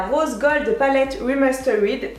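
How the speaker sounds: English product name tried in a French accent; careful English name. Real, not acted. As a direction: reach carefully for the English pronunciation. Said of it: "je l'ai presque bien prononcée".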